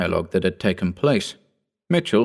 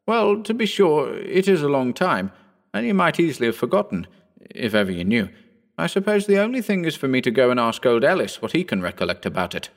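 put-on a lighter, higher young gentleman's voice; young Phillipson; 5 semitones higher than usual. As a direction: lift the voice into the eager young squire. Phillipson teases Mitchell.

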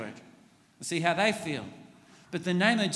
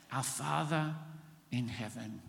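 hushed and reverent, fading on heaven; a softly spoken address to the Father; softer, reverent; 5 semitones lower, 9 dB quieter than usual. Shown as a demonstration. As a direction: let it fall quiet and tender. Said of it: "That's like acknowledging God first".

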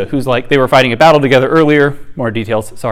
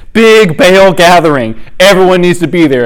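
mock event announcement; 4 dB louder than usual. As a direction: play a promoter summoning everyone. Jehu publicly announces a fake gathering.

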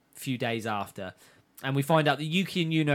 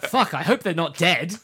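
laughing quote; 4 dB louder than usual. Retold or imitated. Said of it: "And then she's like".

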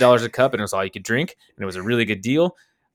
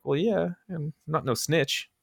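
tough guy; 5 semitones higher, 7 dB quieter than usual. Retold or imitated. Tough-guy reply to classmates.

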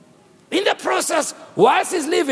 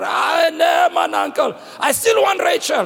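pleading protest; 5 semitones higher than usual. Acted. Jacob protests to his uncle.

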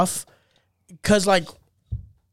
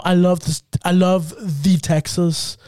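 put-on German accent; 3 semitones lower than usual. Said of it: "So when they speak English".

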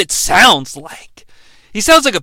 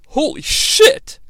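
very high, slow "Holy shit!"; stretched disbelief, pitched way up; shocked; 13 semitones higher, slower than usual. Real, not acted. Host reacting to the trucker reveal, high and drawn out.

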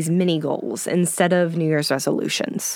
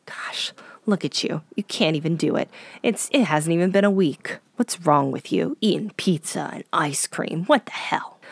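shaming inner voice. Retold or imitated. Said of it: "wild shame spiral of".

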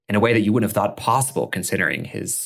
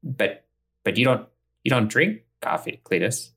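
a touch higher, puzzled waitress; surprised waitress; 4 semitones higher than usual. Acted. Waitress puzzled at Cletus ordering coffee, slightly higher. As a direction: raise it lightly in mild disbelief.

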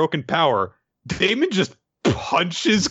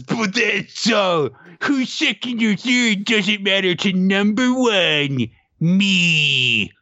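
cocky declaration; 4 semitones higher, slower than usual. Retold or imitated. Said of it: "And then Damon says".

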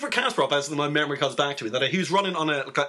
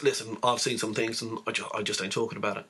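hint of a hard man who won't talk; grim war veteran; 5 semitones lower than usual. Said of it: "He goes".

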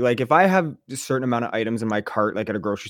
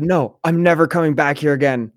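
imitating a furious customer, louder; hammed-up indignant storm-off; mock freak-out; 4 semitones higher, 4 dB louder than usual. Imitating a Karen storming out of the shop, angry and louder. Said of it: "freaked out and said".

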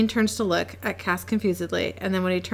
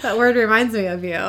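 laughing; 3 semitones higher, 4 dB louder than usual. Real, not acted. Co-host laughing at funny word.

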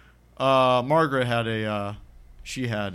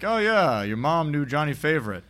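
mock casual remark; 3 semitones higher than usual. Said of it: "he's like".

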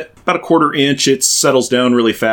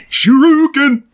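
loud high battle cry; yell; 4 dB louder, slower than usual. Retold or imitated. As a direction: shout it mid-attack.

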